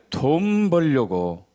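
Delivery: drawn-out indignant accusation; angry scolding. Retold or imitated. Regular customer angry at the young practitioner, retold indignant scolding. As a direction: stretch the words out slowly in mock indignation. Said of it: "단골 아주머니가 화를 내더라고".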